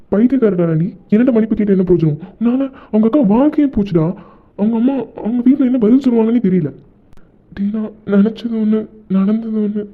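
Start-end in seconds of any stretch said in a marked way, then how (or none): 0.1-6.7 angry scolding. Acted. Friend keeps scolding Ranjith.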